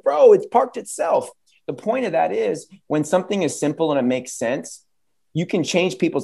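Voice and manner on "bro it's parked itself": high mock boast; lightly voiced driver showing off. Driver answers Big Papi, high mock boast. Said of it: "He's like".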